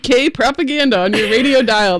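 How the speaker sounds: laughing whisper. Real, not acted. Joking pro-UK propaganda aside.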